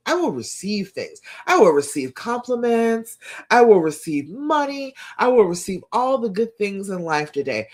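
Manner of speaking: affirmation building from calm to bold. Shown as a demonstration. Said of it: "Today I am receptive".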